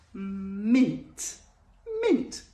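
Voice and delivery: mock excited reveal.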